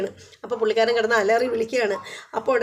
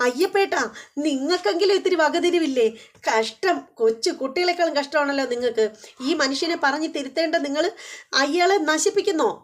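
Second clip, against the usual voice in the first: mock scolding; 5 semitones higher than usual. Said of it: "കുറേ വഴക്ക് കൊടുക്കുകയാണ്".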